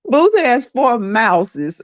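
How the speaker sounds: can barely get it out for laughing; giggling. Real, not acted. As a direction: giggle out the silly plural. Giggling over the plural of mouse.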